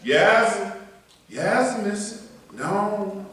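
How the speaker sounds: "Yasm, yasm" run together as one syllable each, falling; Southern "yasm". Retold or imitated. Preacher asking Pearl if she's heard it, Southern slur. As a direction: imitate kids saying "Yasm". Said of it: "Pearl, you ever heard that?".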